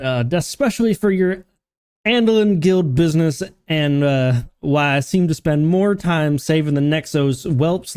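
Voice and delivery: lightly voiced innkeeper with rustic accent; hint of a fantasy barkeep's accent; tavern keeper in dialect. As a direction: read as a dialect-speaking barkeep to a newcomer. Reads innkeeper's dialogue in dialect.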